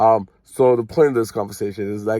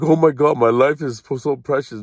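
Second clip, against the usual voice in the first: higher, louder mock gush; mimicking people who think their life is so precious; mocking dramatic people; 3 semitones higher, 3 dB louder than usual. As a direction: ham up a self-important whine. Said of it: "be a bunch of people be like".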